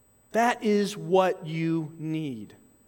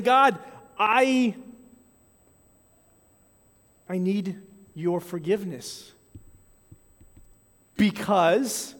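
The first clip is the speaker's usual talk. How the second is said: prayer of repentance. Shown as a demonstration. Pastor voicing a sinner's repentant prayer, earnest. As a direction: confess it to God, humbly.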